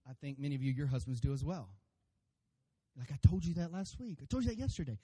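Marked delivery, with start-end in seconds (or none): 3.1-5.0 lightly acted nagging wife; mild mock insistence. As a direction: insist you already said it, pitch climbing. Acted spouses' quarrel over selective hearing.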